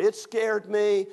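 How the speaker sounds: hammed-up, drawn-out scare; dramatically drawn out. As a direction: stretch "scared" for suspense. Retold scary story, dragged out.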